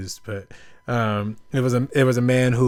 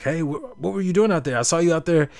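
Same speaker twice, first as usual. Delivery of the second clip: curious businessman; 5 semitones higher than usual. Retold or imitated. Tourist calling to a fisherman on the beach, curious. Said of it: "and he's like".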